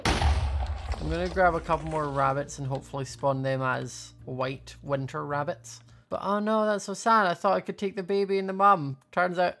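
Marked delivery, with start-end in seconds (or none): 6.1-9.6 mock sad. Leaving baby bear behind.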